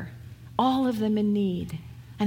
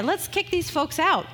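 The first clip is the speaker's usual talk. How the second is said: higher, brisk mock-impatient voice; impatient disciples; 4 semitones higher than usual. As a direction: toss it off like tired workers wanting to quit. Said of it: "they're ready to".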